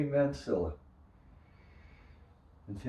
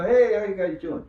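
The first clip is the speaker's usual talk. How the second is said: friendly player greeting; 11 semitones higher, 9 dB louder than usual. Retold or imitated. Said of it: "and they'll".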